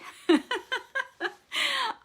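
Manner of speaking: loud high giggle; high laugh. Real, not acted. Laughs after joke.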